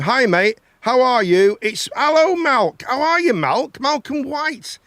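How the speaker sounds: high, loud, delighted hello to a mate; excited greeting. Real, not acted. Greeting a friend joining the stream.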